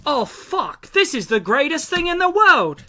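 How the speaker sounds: put-on high-pitched, amazed British accent. Brit reacting to American food, in an awed British accent. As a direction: gush in a British accent, voice swooping up. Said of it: "that's a good accent".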